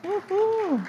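high, loud woo-hoo of delight; excited cheer. Real, not acted. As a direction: cheer them back in. Cheering returning mom and dad.

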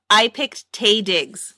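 slowly repeats the name, Taye Diggs said slow and clear. Real, not acted. Repeating the name slowly for a co-host who missed it. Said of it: "I didn't hear who you said".

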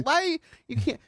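high incredulous question; mock shocked disbelief; surprised. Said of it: "I was like".

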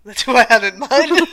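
a hint of Trump bragging; mild mock Trump; Trump impression. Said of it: "That's what Donald Trump would say".

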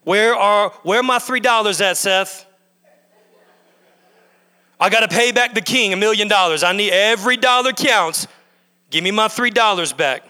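mildly indignant, insistent demand; pestering demand, slightly pushed; hounding creditor. Acted. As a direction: hound someone over a small debt. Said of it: "I am hounding him".

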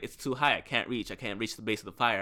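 unfazed retold excuse, no urgency; super chill. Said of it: "she was super chill about it".

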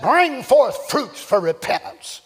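a touch of a fiery John the Baptist; fiery prophet call. Retold or imitated. Preacher voicing John the Baptist, mildly fiery. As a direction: proclaim it like a blazing fire. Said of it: "like a blazing fire".

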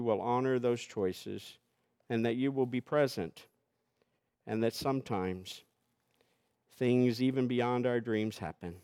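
steady, earnest pastoral prayer. Acted. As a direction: pray aloud for the congregation. Pastor leads congregational prayer.

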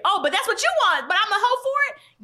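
high-pitched, incredulous comeback; mock outrage climbing high; indignant mock retort. Acts out indignant retort to men.

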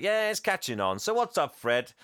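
high, casual and pleased with himself; mock breezy Santa. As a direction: toss it off lightly, high up. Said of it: "And Santa's like".

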